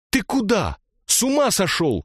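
put-on high alarmed girl's voice. A narrator's reading. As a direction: grab him and cry out in alarm. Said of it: "Ксюша вцепилась в него". (испуганный высокий девичий голос)

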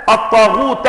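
الطاغوت ending in fatha: at-taghuta. Shown as a demonstration. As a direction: finish الطاغوت with -ta. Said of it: "بفتح التاء". (الطاغوتَ بفتح التاء)

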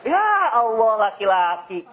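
slow, drawn-out dismay; exasperated sigh. Acted. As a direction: shake your head at weak men. Exasperated at weak men. (keluhan kecewa yang lambat)

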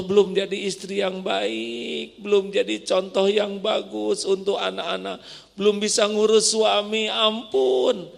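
high, pleading prayer with a sob on ampun; tearful prayer. Acted. Wife pleading to God over her marriage, tearful. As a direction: beg God for mercy, close to tears.

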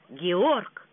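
urgent, worried call to his brother; serious, alarmed call. Acted. Frederick warns his brother that people are coming, alarmed call. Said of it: "серьёзный, встревоженный голос Фредерика".

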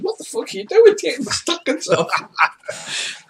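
high-pitched incredulous squawk breaking into laughter; incredulous outburst. Acted. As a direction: exclaim high, appalled and half laughing. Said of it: "He's going".

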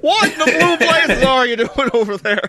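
high, hammed-up hick outrage; redneck Cockney. Cockney confronting the touring actor, redneck Cockney. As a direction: scold like a mock redneck. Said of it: "I guess in traditional Cockney".

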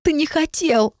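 high, sniffling tearful jab; tearful retort. A narrator's reading. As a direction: throw it back through tears. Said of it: "бросила, шмыгнув носом".

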